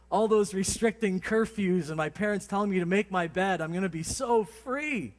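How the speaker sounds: mock youthful excitement; excited teen. Imagined teen thrilled to move out.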